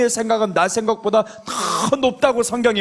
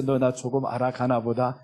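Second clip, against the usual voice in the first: lower, softer tender line; gentle voice of the Lord; 6 semitones lower, 5 dB quieter than usual. Acted. The Lord fondly repeating it to the believer, soft and lower. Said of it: "그러지 않겠어?".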